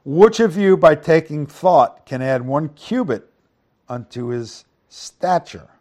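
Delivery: projected Bible reading, starting high and loud; emphatic preacher reading aloud; scripture reading. Acted. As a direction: read the verse out, opening forcefully then easing.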